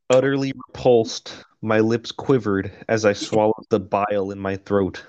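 measured, even audiobook read; steady first-person narration; story narration. A narrator's reading. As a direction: read it out like a novel. Reads the novel aloud.

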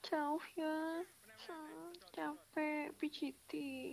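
slow, drawn-out whining complaint; whiny grumbling. Retold or imitated. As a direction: mimic a tired partner moaning on a long drive. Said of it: "ntar ngo-, ngomel lagi di jalan".

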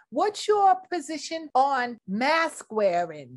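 sweet, prim news interviewer; news reporter voice. Acted. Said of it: "Miss Trudy Tirade".

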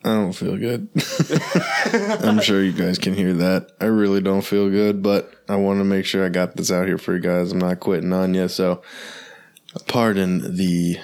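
stuffy nose from a cold; nasally sick voice. Real, not acted. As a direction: talk through a blocked nose. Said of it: "the nasally voice for today".

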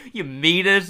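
high, loud eager question; hopeful, pitched right up; hopeful surprise. Retold or imitated. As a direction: act out a cartoon kid's delighted disbelief. Acting Martin's hopeful reply.

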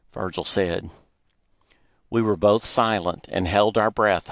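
ordinary delivery, nothing marked

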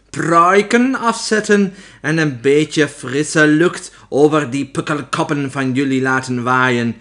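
put-on loud, slow commanding shout with foreign accent; witch shouting orders. A narrator's reading. Opheks ordering her witches to take wigs off, shouting. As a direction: shout it out slowly at the whole hall. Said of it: "schreeuwde ze".

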